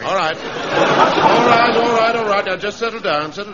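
loud, high call for order; shouting. Acted. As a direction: raise your voice over the squad. Quieting a rowdy squad.

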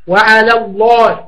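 وعلى الله slowly, thin lam in وعلى and a full heavy lam in الله; slow careful وعلى الله with a light then heavy lam; tajweed demo. Shown as a demonstration. Teacher demonstrating a thin and heavy lam to students, slow. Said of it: "ترقق لام على وتفخم لام الله".

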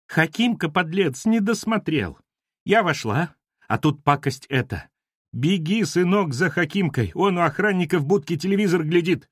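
high-pitched plaintive wailing; acted weepy, agitated pleading; tearful complaint. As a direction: lament as if close to tears. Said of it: "плачущим голосом сказала домоуправша".

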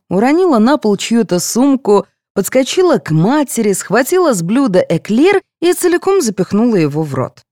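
ordinary delivery

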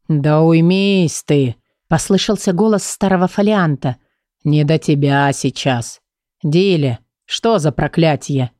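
put-on slow, low old tome voice; old folio. The old folio hushes the grumbler and asks Dilly, slow and low. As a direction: speak slowly like an ancient book.

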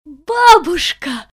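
high, loud, slow squeal of joy. A narrator's reading. Brenda sees her grandmother, a loud high squeal. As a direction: cry out in delight. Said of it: "взвизгнула Бренда".

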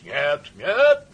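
high, loud refusal; despairing shout. A narrator's reading. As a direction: cry out in protest, beside yourself. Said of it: "кричал генерал".

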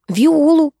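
high, loud call of «Виолу». A narrator's reading. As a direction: shout the name across the room. Waitress calls out answer. (официантка громко кричит в подсобку)

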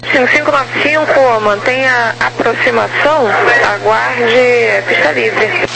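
distant radio transmission; over walkie talkie. Real, not acted. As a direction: heard through a radio speaker. Controller heard over the radio.

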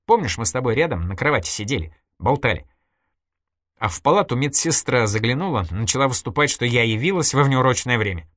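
a hint of a cool, confiding woman; Irina's voice, lightly voiced. Irina coolly confessing to her friend Nadya, lightly voiced. Irina recalls the hospital scene.

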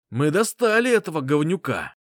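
loud, gleeful battle cry; triumphant shout. Acted. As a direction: yell it with rough glee. Soldier reports triumphantly.

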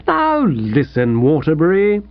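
kindly. Acted. Editor pats his rejected contributor on the back, kindly. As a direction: ease gently into the advice. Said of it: "he said kindly".

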